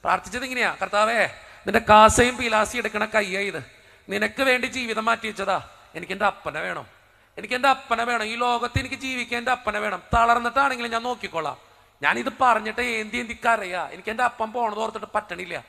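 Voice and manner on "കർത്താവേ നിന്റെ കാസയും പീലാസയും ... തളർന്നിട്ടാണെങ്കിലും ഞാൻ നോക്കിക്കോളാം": pleading prayer. Retold or imitated. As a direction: cry out to the Lord with raised hands. Tearful prayer to Christ, pleading.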